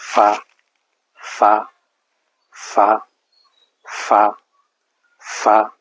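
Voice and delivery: clear, isolated "ফা" with a lip-to-teeth f; f sound demo. Shown as a demonstration. Teacher drilling Arabic letters, careful f sound in "ফা". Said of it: "নিচের ঠোঁটের পেট উপরের দুই দাঁতের".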